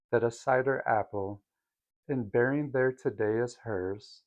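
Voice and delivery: measured poetry reading with pauses between lines; gently expressive verse reading; poem recitation. Acted. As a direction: read the poem aloud, lightly lilting and unhurried. Reads the poem aloud.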